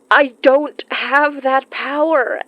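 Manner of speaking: crying. Acted. Breaking down over lost loved ones.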